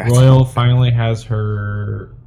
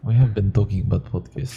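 imitated Russian accent, softer; 5 dB quieter than usual. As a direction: echo it with a mock Russian accent. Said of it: "But that's more Russian".

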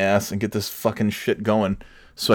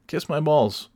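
pitched higher, sing-song taunt; higher mocking kiss-off; 6 semitones higher than usual. Taunting a bumper-sticker driver in a higher voice. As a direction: toss it up high like a taunt.

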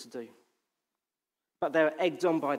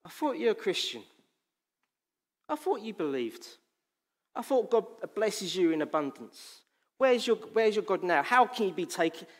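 mocking enemy. The enemy mocking a struggling Christian, taunting. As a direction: needle the believer with scorn. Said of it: "the enemy comes and starts mocking".

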